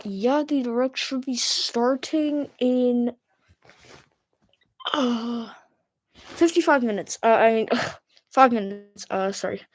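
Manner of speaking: muffled through a mask; talking behind a face mask. Real, not acted. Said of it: "I sound a bit weird because, uh, I have a mask on".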